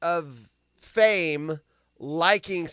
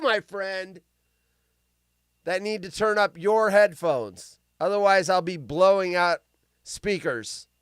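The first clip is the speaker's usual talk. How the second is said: ordinary delivery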